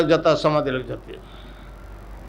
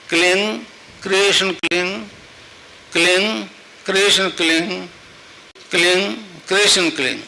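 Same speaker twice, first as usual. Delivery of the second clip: measured japa with pauses between repeats; mantra recitation. Shown as a demonstration. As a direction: demonstrate the mantra phrase by phrase. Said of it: "संतों ने उसको जपाया". (मंत्र जाप, रुक-रुक कर)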